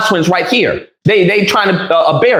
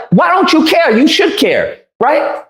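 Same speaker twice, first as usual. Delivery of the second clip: retold challenge; 6 semitones higher than usual. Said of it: "I was like".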